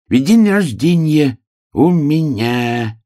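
высокий протяжный заячий голос; повтори медленно, растягивая каждое слово. A narrator's reading. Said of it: "медленно повторил заяц". (заяц тянет слова врастяжку)

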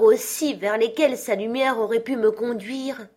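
a chained spirit grieving his wasted life; Marley's ghost. Acted. Ghost's lament. (le fantôme de Marley, plainte solennelle et forte)

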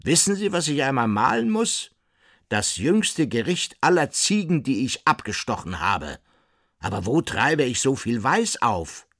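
high, loud burst of inspiration; fired-up painter. A narrator's reading. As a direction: proclaim your great idea excitedly. Nulitschek fired up about his painting idea.

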